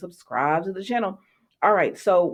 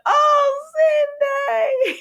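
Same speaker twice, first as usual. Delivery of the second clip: high, loud, half-crying cry of his name; emotional outcry; 4 dB louder than usual. Real, not acted. Moved by Zende's scene.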